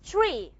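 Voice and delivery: tree with a puff of air after the t; aspirated tree. Shown as a demonstration. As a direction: breathe out hard on the t of tree. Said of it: "How do native speakers produce the word".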